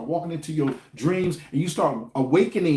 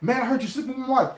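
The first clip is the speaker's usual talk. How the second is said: higher, teasing tough-guy quote; mock confrontation; 8 semitones higher, faster than usual. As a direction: act out a man confronting a rival. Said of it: "you know how you be like".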